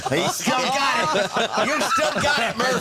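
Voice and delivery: laughing while teasing. Real, not acted. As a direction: chuckle through the words. Teasing after mayor joke.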